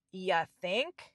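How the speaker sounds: put-on sarcastic tone. Retelling what the assistant said after hearing of anxiety: imitating a sarcastic retort. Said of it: "your response to that is a sarcastic".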